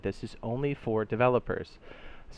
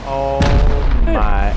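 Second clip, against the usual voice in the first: surprised; 2 semitones higher, 13 dB louder than usual. Real, not acted. Reacting to the shot.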